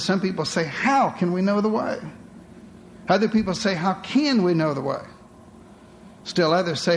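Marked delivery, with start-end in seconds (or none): 0.6-2.0 "How" lifted, rising question; stress on How. Shown as a demonstration. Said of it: "different inflections". 3.7-5.0 "can" stressed in "How can we know the way?". Shown as a demonstration. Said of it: "different inflections".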